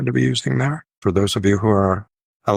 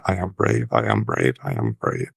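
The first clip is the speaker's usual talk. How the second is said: low, even repetition of a mantra; repeated self-soothing mantra; 11 semitones lower than usual. Retold or imitated. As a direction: repeat it steadily to yourself, sinking lower. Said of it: "tell herself over and over again".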